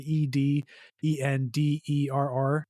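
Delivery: slow letter-by-letter spelling. Shown as a demonstration. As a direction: spell out each letter slowly. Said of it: "I don't know if I said that right".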